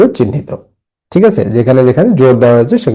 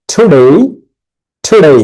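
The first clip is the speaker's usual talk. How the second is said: টুডে raised, with "de" stretched; syllable stress; 4 semitones higher, 3 dB louder than usual. Shown as a demonstration. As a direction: lift and lengthen the second syllable of টুডে each time. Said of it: "একটা করে হাততালি দিবে".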